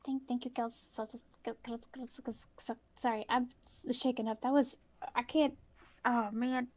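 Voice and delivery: put-on shaken old lady. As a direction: stammer it out, rattled and weak. Old woman shaken after crash.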